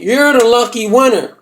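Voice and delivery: slow, deliberate character voice; brother's put-on voice. Brother congratulating the visitor, slow put-on voice. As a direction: draw it out as the brother. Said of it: "He saying".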